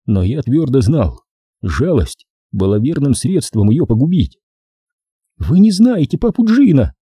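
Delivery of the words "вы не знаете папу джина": high, hoarse woman's voice. Acted. Corola rasps a defense of papa Gino. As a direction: rasp it out, worn down. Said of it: "сказала она хриплым голосом".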